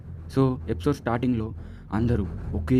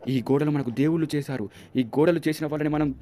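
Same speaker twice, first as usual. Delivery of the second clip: higher, building to a loud sermon-like cry; preaching villager; 5 semitones higher, 4 dB louder than usual. Retold or imitated. A village zealot preaching to the crowd about the walls, building louder. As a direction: proclaim it like a street preacher, rising. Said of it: "వాళ్ళ విలేజ్లో ఒక అతను".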